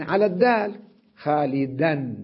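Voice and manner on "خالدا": خالدا said xalidan, with an n after the d; nunation on the final d. Shown as a demonstration. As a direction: sound the tanween: خالدا as xalidan. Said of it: "الدال نلفظها منونة". (نطق خالدا بالتنوين)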